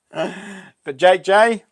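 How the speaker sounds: But Jake J drawn out very slowly with J leaned on; slow, weight on the J in Jake J; stress on J. Shown as a demonstration. Congratulating the winner, stressing J. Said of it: "not Jake Cohen".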